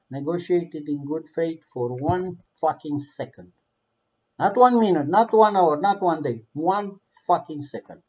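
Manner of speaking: each "one" hit hard, building outrage; angry emphasis. Real, not acted. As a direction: spit out "not one minute, not one hour" in anger. Angry rant about Putin's bad faith.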